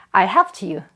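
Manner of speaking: "helped you" joined as helpt-you; linked t ending. Shown as a demonstration. Teacher repeating the model sentence, "helped you" linked with t. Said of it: "요렇게 발음이 됩니다".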